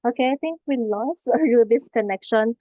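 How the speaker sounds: normal talking voice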